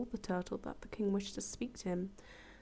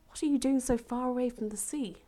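bright, louder rabbit voice; curious rabbit; 3 semitones higher, 6 dB louder than usual. Acted. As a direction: call out curiously. Rabbit asks turtle.

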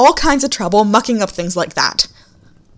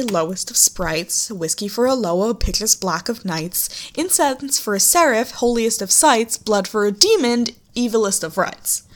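recited rhyme. Acted. Recites rhyming saying.

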